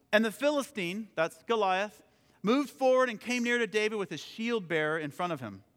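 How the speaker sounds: measured, emphatic Bible reading; scripture reading. Acted. Reads scripture aloud.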